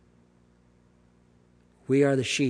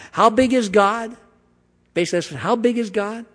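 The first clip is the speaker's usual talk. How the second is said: higher, louder wonder at "big"; raised, astonished "How big is God?"; marvelling question; 8 semitones higher, 6 dB louder than usual. Acted. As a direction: ask it in awe. Preacher marvels.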